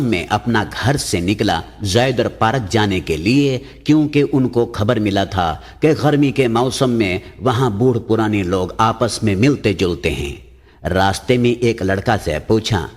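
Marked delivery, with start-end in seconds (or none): none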